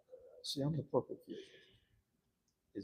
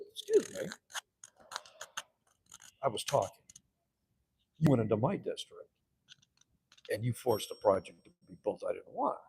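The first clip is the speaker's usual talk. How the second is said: indignant. Retold or imitated. Quarrel in council chamber.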